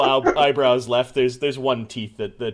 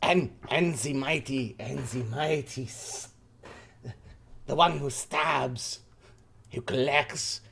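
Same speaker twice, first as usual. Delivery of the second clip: put-on French accent. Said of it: "trying to figure out his accent".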